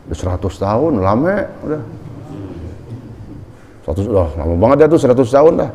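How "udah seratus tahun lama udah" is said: softly coaxing, lightly acted devil's temptation; gentle, persuasive undertone; coaxing murmur. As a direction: coax quietly, as if tempting someone to give up. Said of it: "Dibisik-bisikin, dirayu, dibujukin".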